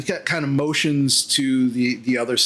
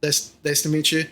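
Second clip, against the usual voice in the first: half-elf male. Acted. Half-elf meets newcomers, halting and a little awkward. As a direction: stumble politely over your own name. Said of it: "the half elf, uh, male".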